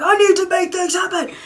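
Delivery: high, loud and strained; clenched urgency. Acted. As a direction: force it out as if clenched tight. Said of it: "Like this clenching".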